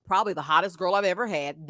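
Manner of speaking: low, mock-sincere man's voice; faking boyfriend. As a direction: imitate him putting on an act. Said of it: "I knew he was faking".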